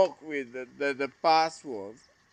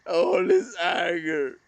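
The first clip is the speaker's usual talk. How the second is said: crying; 3 semitones higher, 3 dB louder than usual. Real, not acted. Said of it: "this video became so emotional".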